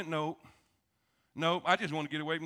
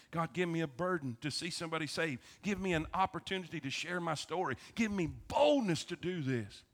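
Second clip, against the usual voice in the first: quiet prayer; 4 dB quieter than usual. Shown as a demonstration. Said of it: "So pray for Bob every morning".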